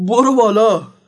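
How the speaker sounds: scared, nervous, timid voice. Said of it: "با همون حالت ترسولتش گفت".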